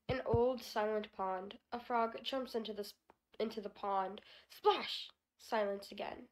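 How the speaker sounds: haiku recital. Shown as a demonstration. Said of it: "Here is one from Basho".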